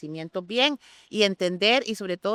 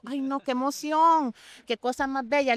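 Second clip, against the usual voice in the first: higher-pitched delighted gushing; moved and excited; 5 semitones higher than usual. Retold or imitated. Wine teacher recalling her reaction to students' messages, excited. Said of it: "me emociono".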